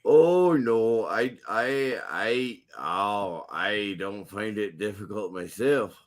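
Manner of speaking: hesitant, badly faked Scottish brogue; shaky-footed mock Scottish accent. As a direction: attempt a Scottish accent and stumble into it. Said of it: "Scottish accent is really bad".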